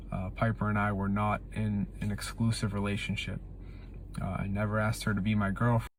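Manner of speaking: flat, scripted delivery; reading lines without feeling; bad acting. Real, not acted. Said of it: "he looks like he's reading from a script".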